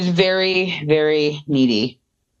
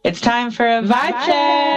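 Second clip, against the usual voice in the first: announcer; 6 semitones higher than usual. Acted. Podcast segment jingle.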